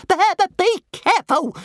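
high, loud stuttering dragon squeak; high-pitched anxious creature stutter; warning. A narrator's reading. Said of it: "warned Toothless helpfully".

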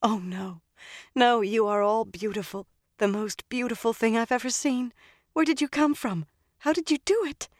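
put-on high, giddy young woman; overjoyed. A narrator's reading. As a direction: gush in disbelieving delight. Egwene overjoyed at rescue.

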